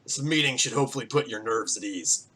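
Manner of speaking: lightly gruff voice addressing a crowd; mildly gruff town speech; gruff mayor. Acted. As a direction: speak as a weathered farmer running a meeting. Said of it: "he has, like, a very gruff voice".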